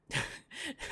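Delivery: high breathy teasing giggle; high airy giggle while teasing. Real, not acted. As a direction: giggle at them playfully. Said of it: "I'm just teasing you".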